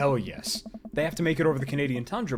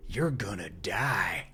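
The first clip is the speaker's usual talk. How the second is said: slow, lower spooky whisper; ghost whisper; 5 semitones lower, much slower than usual. Acted. Ghost speaking through the meter, slow spooky whisper. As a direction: breathe it like a spirit on the meter.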